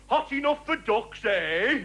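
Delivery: a mildly put-on pub bore in the lift; dopey small talk with a nudge. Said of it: "they're gonna say something stupid".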